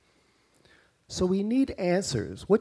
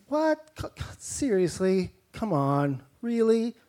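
stammering, pitched-up mock outrage; exasperated disbelief; 5 semitones higher than usual. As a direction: sputter at the nonsense. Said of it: "He's saying".

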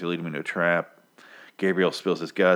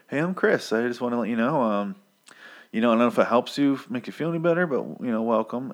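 lightly mocked courtesy, pitched up; polite; 4 semitones higher, faster than usual. Cannibal leader welcoming his captive, mock politeness. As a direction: imitate a polite, apologetic host. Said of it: "They're very polite. At least Chris is".

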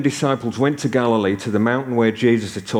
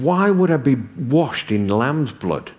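puzzled laughing thought; 3 semitones higher, slower than usual. Retold or imitated. Retelling his confused inner thought.

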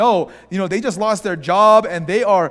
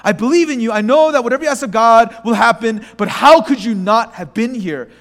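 mild mock anger; 3 semitones higher, 4 dB louder, faster than usual. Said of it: "who's kind of angry".

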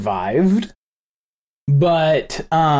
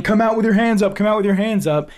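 retold yelling; 4 semitones higher than usual. Host retelling police orders at the door, mild mock yell. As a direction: imitate officers repeating an order, half-raised. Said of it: "They keep yelling".

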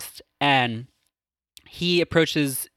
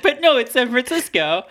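much higher, whiny objection; high mock cardinal protest; squeaky protest; 11 semitones higher, 3 dB louder than usual. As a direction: whine it like a panicked cardinal.

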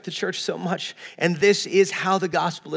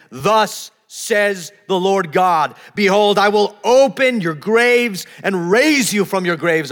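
preacher reading scripture aloud with weight. Acted. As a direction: proclaim the prophecy to the congregation. Reads Ezekiel aloud.

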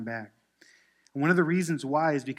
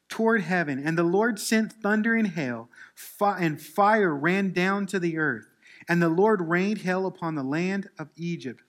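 loud, forceful pulpit reading; scripture reading; 4 semitones higher, 6 dB louder than usual. Acted. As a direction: proclaim God's command, leaning hard on key phrases. Reads scripture to congregation.

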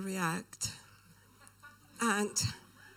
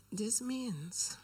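hushed awe. Retold or imitated. Girl's tearful revelation.

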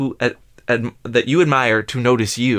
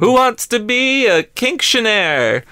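game show host; 10 semitones higher, 3 dB louder, slower than usual. Pretend.

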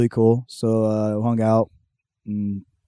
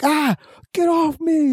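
high, drawn-out wail; mock drunken protest; slower than usual. Drunk brother caught in a headlock, hammed-up high protest. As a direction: whine it like a sloppy drunk in a scuffle.

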